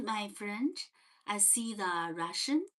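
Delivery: normal talking voice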